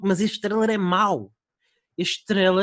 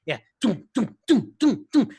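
rhythmic tum sounds; 4 dB louder, slower than usual. Retold or imitated. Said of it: "cortes de dois segundos".

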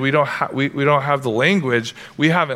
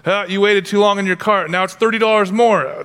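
higher, teasing store voice about your cart; mock Amazon nagging; 5 semitones higher than usual. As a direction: lightly play a nagging online store. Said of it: "And you're like".

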